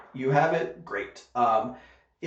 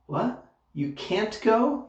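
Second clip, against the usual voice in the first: higher-pitched confused questioning; puzzled surprise; 6 semitones higher than usual. Acted. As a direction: act out a baffled double-check. Acted confused listener mishearing.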